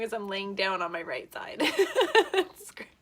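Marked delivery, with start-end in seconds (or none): 1.6-2.9 high, loud laughing. Real, not acted. Laughing at situation.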